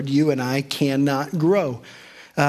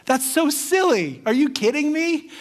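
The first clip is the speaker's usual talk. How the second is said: imitating Pastor Jim; 10 semitones higher than usual. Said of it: "he'd go".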